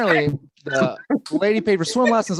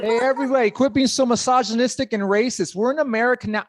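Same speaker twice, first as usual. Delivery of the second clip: imitating great grandma; 8 semitones higher than usual. Grandma voice continues.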